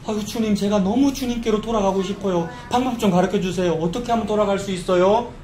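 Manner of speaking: nice, sincere-sounding plea to the Lord; earnest good-natured plea. Acted. Preacher voicing the people begging God nicely, earnest plea. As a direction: ask sweetly, like an eager believer. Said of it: "착하게".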